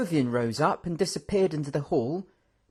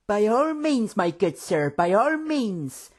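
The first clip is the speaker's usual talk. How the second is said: hurried hostess; 8 semitones higher, slower than usual. A narrator's reading. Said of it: "hurriedly grabbing two bowls".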